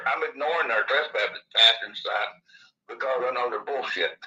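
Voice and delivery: lisping from missing upper teeth. Real, not acted. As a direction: talk with a lisp, no upper teeth. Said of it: "Excuse my lisp".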